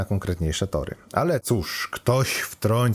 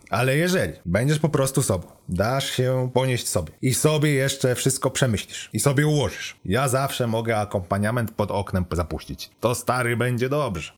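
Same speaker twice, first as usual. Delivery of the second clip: higher, breezy know-it-all computer; lightly voiced chatty AI; 5 semitones higher than usual. Car computer advises the lovestruck student, chatty and cheeky. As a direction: lightly play an AI rattling off romantic advice.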